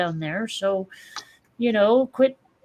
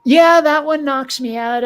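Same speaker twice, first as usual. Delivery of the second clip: laughing through the words, louder; 3 semitones higher, 8 dB louder than usual. Real, not acted. To the co-host about British pronunciations, laughing out loud. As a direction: crack up while saying it.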